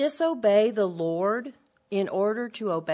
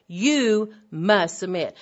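loud, slow command; harsh husband's demand; 6 dB louder, slower than usual. Retold or imitated. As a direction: hammer each word as a demand. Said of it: "That's the active voice".

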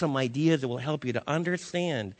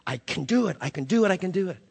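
determined self-pep talk; 4 dB louder, faster than usual. Retold or imitated. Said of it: "I've tried to say from my time as a little kid".

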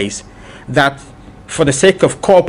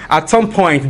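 a laugh running into the words; 3 semitones higher, slower than usual. Real, not acted. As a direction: chuckle through the phrase. Laughs while restarting the sentence.

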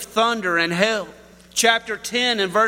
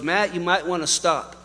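casual. Retold or imitated. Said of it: "It was just casual".

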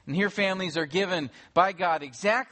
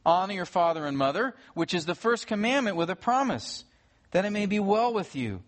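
measured, raised reading of the verses; formal Bible reading from the pulpit; scripture reading. Acted. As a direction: proclaim the text to the room. Reads scripture to standing congregation.

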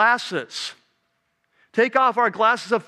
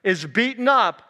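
rising, louder vow to step in; a fired-up listener who won't stand for it; indignant resolve; 4 semitones higher, 4 dB louder, slower than usual. Retold or imitated. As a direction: announce you're going in to settle it. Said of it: "I'm saying".

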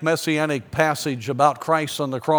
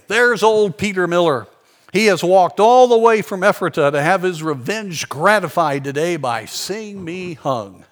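loud, higher sneering taunt; sarcastic; 4 semitones higher, 6 dB louder than usual. Retold or imitated. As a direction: jeer at him from the scaffold. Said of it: "he said sarcastically".

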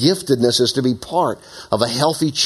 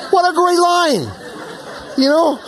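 laughing. Real, not acted. Delighted by the movie quote.

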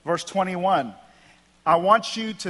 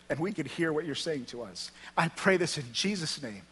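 earnest, slightly subdued public prayer; leading prayer; 4 dB quieter than usual. Real, not acted. Preacher praying to Heavenly Father with the gathering, sincere prayer. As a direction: pray it sincerely on behalf of the room.

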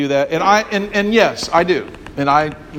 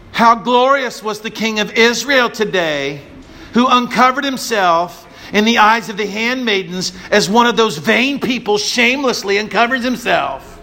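sarcastic; 4 semitones higher than usual. Acted. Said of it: "why did you read it like that".

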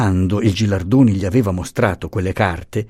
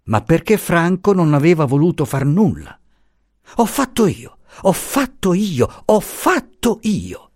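flustered confession; 8 semitones higher than usual. Acted. The professor confessing to Luisa, high and flustered. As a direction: blurt it out all aflame and anxious. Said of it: "tutto acceso e trepidante".

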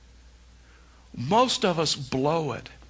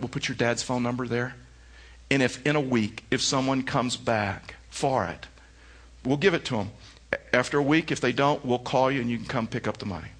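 put-on relaxed, lower, gentle voice to a child; cool and calm; 4 semitones lower than usual. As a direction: kneel down and reassure her easily. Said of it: "he was just so cool".

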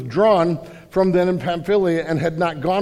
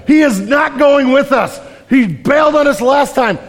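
voicing angry Paul; 7 semitones higher, 7 dB louder than usual. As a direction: shout it like Paul refusing Barnabas. Acting out Paul in video.

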